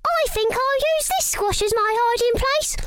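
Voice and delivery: high secret whisper; whispering mouse. Acted. Missus Mouse secretly picks her hiding place, in a whisper.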